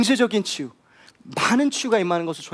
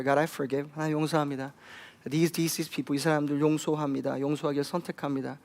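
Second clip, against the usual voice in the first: tearful prayer; 4 semitones lower, 5 dB quieter, much faster than usual. Retold or imitated. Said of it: "she's weeping and crying".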